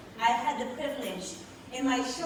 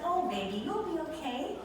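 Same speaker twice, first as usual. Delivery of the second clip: calm reassurance; 4 semitones higher than usual. Retold or imitated. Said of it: "she said to me in a very calm voice".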